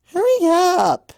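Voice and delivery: high, slow, loud jeer; impatient shout. Acted. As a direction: yell at her to hurry. Crowd heckling.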